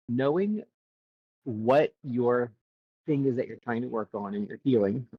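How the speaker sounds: hiccuping while eating. Real, not acted. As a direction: mouth full, hiccuping. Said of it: "I'm eating too fast".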